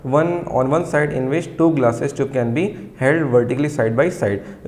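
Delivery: very slow, word by word, for students to write down; slow dictation. Shown as a demonstration. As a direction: dictate each word clearly so the class can copy. Dictating from textbook.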